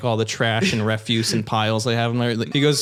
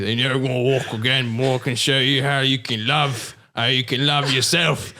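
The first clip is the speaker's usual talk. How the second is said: London doctor. Acted. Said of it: "it's the same accent".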